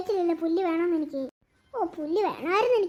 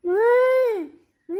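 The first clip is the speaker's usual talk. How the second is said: cow moo; 3 semitones higher, 6 dB louder, slower than usual. Acted. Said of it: "പെൺപശുവിന്റെ sound".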